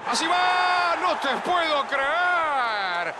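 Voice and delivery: drawn-out disbelieving cry; can't believe the miss; stunned disbelief. Real, not acted. Penalty missed, disbelief.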